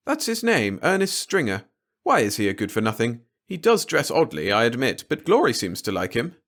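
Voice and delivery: high-pitched, lightly voiced wife; wife defending the young man to her husband; mild motherly reply. Marge defending Glory's guest.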